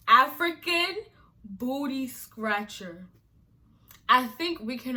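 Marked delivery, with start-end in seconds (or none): 0.1-3.1 mocking slur. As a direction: sneer it out, stretching booty scratcher.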